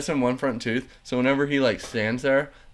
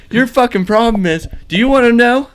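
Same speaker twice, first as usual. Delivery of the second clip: high, loud mocking rant at a coworker; imitated angry shout; 12 semitones higher, 11 dB louder than usual. Pirate coworker taunting the kid about the turkey, loud angry shout. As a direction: yell it like a furious hothead goading someone. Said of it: "He's like".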